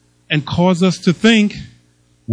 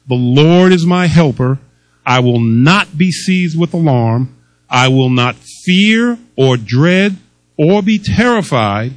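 1 bold declaration; 4 dB louder than usual. Acted. Preaching scripture slowly.

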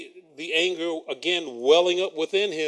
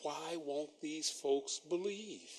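exasperated; 13 dB quieter, slower than usual. Retold or imitated. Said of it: "It's like".

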